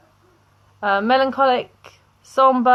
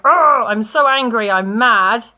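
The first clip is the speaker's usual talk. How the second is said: mock angry; 3 semitones higher, 6 dB louder than usual. Shown as a demonstration. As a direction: play at being furious for the class.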